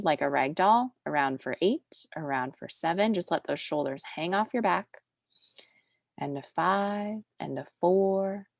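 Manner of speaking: steady, soothing instructor voice; calm Pilates cueing. Real, not acted. Pilates teacher talking a class through a roll-up and arm circles, calm. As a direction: guide the class through each move calmly.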